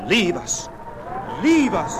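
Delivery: high, loud plea, rising on repeat; crying out. A narrator's reading. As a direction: cry out to drive someone off. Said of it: "the trees cried".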